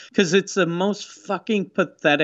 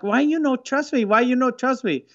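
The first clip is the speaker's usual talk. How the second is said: high-pitched whiny imitation of a tearful woman; hammed-up wounded pleading, much higher; mock crying; 6 semitones higher than usual. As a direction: plead in a put-on foreign accent, mock tearful. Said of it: "then she starts crying".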